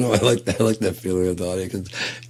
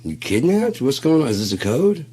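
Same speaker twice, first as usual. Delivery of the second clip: much higher, louder, frantic questions; frantic panic; 9 semitones higher, 9 dB louder than usual. Retold or imitated. Dude yelling at friend he thinks was kidnapped, frantic. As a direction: shriek like a hostage call.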